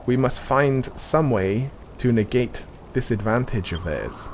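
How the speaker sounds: measured, solemn NPC reading; game dialogue reading. Acted. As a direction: read it like a quest-giver's briefing. Reads game NPC dialogue aloud.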